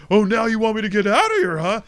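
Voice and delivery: very high, loud cartoon yell; hammed-up indignant shouting; acted angry outburst. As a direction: yell back in mock outrage. Acted quarrel between Homer and producer.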